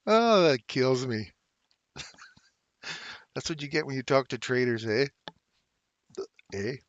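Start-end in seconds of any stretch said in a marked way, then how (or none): 3.3-6.8 a light Canadian "eh?" tacked on the end. Pretend. Joking to chat with a light Canadian "eh?". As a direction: play up the Canadian "eh?", just lightly. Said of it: "How's that for a Canadian response?".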